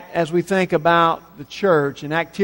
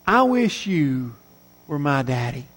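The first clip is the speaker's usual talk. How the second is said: put-on hushed and lower, a boy's longing; softly wishing boy; 7 semitones lower, 6 dB quieter than usual. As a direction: let it fall soft and low like a little boy looking up. Little boy's wish in story.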